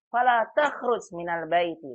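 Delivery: slow, emphatic "Fala takhruj minal baiti"; prohibitive intonation. Shown as a demonstration. Teacher reminds class of intonation, slow firm prohibition. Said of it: "Kemudian intonasinya".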